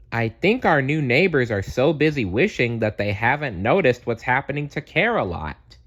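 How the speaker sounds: worried, lifted voice. Acted. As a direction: share the worry with friends. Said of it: "said Tenderheart Bear".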